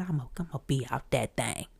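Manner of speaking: low-key reply. Retold or imitated. Her cool reply to idol.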